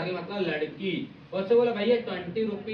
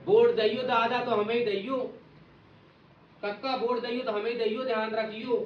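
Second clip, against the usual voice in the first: party canvasser pleading; 3 semitones higher than usual. Retold or imitated. Party worker begging villagers for votes, mock pleading. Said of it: "बोल दिया मुक्ति ने कि देखो भैया".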